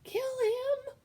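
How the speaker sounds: very high, loud yell; shouted order. Acted. Cook shouting at Midge to kill the mouse, very loud yell. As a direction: scream the order. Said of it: "shouted the cook".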